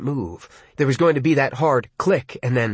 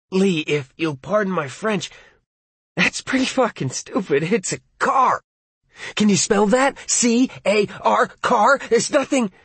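scornful mockery; 7 semitones higher than usual. Arnie mocking Lee.

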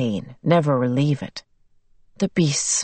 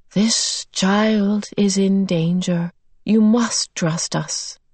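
slow gentle beast; 2 semitones higher, slower than usual. Acted. Beast speaking to Calvin.

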